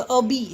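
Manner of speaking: अभी as a-bi joined in one go; syllables run together. Shown as a demonstration. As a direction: say अभी with no gap between a and bi. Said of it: "अभी भी साथ में बोलेंगे".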